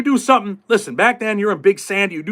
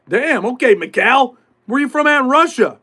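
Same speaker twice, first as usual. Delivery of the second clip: mock humoring; 6 semitones higher, 3 dB louder than usual. Mock-humoring the fake Russian.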